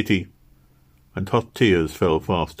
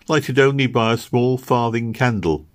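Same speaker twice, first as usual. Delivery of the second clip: ordinary delivery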